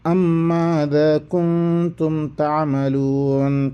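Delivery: slow drawn-out Quranic chant; Quran recitation. Acted. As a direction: recite each word slowly, melodically. Recites verse slowly.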